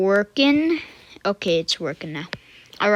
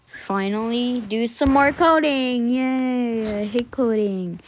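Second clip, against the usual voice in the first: mock cheer; 2 semitones higher than usual. Real, not acted. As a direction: stretch the words out in half-hearted celebration. Mock cheer about hated coding.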